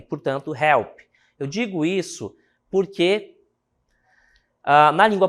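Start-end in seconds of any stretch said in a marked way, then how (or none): 0.5-1.0 help with the h breathed out hard, like a Brazilian R; English h sound. Shown as a demonstration. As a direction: say help with a strong breathy h, the way Portuguese says R. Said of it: "H vai ter som de R".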